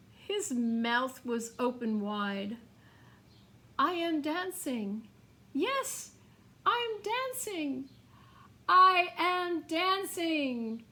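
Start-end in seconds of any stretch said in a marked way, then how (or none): 3.8-10.8 he can't believe he's dancing; joyful cry. A narrator's reading. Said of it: "Gerald cried".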